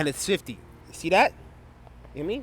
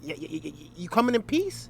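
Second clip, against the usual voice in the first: mock stammering fear. Town elders stammering fearfully at the prophet. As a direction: imitate frightened elders, stammering. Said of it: "the elders are afraid of the prophets".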